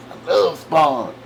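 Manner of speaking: slow, with "love" stretched out; imitating gushing fan. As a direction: savour the word "love", drawing it long. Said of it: "he says".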